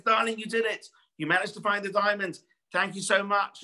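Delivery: high, bright with joy; a wife thrilled at sudden riches; lightly acted happy wife; delighted wife. Wife overjoyed at found diamond.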